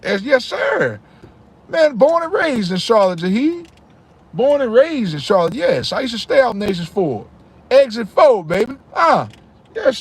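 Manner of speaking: high, lively bragging about his city; excited hometown pride. Real, not acted. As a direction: hype up Charlotte like it's your home turf.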